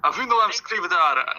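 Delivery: slow, rolled Russian-style accent on "Avino Amskrivdara"; slow the name down in a thick Russian-style accent; Avi's accent. Shown as a demonstration. Player demonstrating the character's Russian-style accent. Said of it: "the best way to do Avi's accent is to say his name".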